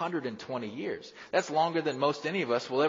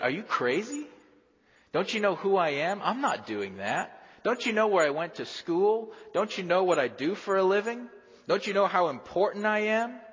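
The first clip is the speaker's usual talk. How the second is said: indignant pride; 7 semitones higher than usual. Acted. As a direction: scoff at the prophet as a proud big shot. Naaman refuses the prophet indignantly.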